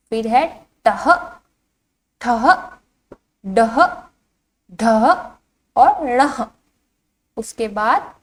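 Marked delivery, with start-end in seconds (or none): 0.9-6.5 "टह, ठह, डह, ढह, णह" each apart with an h ending; visarga pronunciation. Shown as a demonstration. Teacher reciting the row for children, visarga pronunciation. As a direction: sound out "टह, ठह, डह" and on, one by one. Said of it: "इसका उच्चारण किस तरह से किया जाता है".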